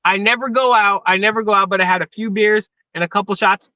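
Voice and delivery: slightly slurred, tipsy speech. Real, not acted. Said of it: "my geopolitics when I'm drunk".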